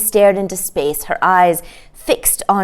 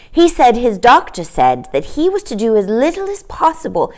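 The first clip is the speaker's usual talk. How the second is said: a lightly voiced girl, higher; a small girl passing on gossip; knowing little girl; 5 semitones higher than usual. Sister tells brother what Daddy said, lightly girlish. Jane answers Michael.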